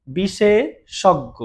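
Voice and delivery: বিশেষজ্ঞ drawn out slowly, ending on a doubled গ; slow careful demo. Shown as a demonstration. Teacher repeating বিশেষজ্ঞ slowly for students to copy. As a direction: model বিশেষজ্ঞ slowly, syllable by syllable. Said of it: "এরকম হবে".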